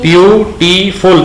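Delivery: very slow, each syllable of ब्यूटीफुल pulled apart. Shown as a demonstration. Teacher counting syllables for the student, very slow. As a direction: break ब्यूटीफुल into its three beats slowly. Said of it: "तीन syllables है ना".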